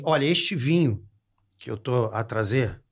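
slow, measured Portuguese waiter, lightly voiced; imitated Portuguese waiter. Portuguese waiter presents a very old wine, slow imitated formality. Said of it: "chegou e falou assim".

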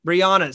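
"Brianna" echoed with an open ah, bree-AH-nuh; corrected name pronunciation. Shown as a demonstration. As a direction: repeat "Brianna" with the open middle vowel. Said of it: "Is it Brianna or Brianna?".

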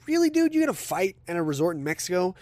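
really, dude, can you believe it; high squeak of disbelief at the husband; incredulous. Real, not acted. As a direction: voice jumps way up in disbelief.

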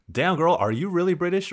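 incredulous teasing. Retold or imitated. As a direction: act out someone amazed and doubting. Voices people questioning her accent.

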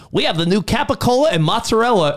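a lightly voiced ad nerd; mild nerdy spokesman. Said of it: "nerdy spokes guy that's like".

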